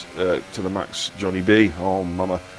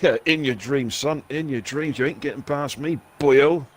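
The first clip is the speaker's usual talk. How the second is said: higher-pitched, teasing brush-off; cocky taunt; 4 semitones higher than usual. Retold or imitated. Driver to a rival eyeing an overtake, cocky taunt. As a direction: taunt a rival trying to get past you. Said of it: "I was like".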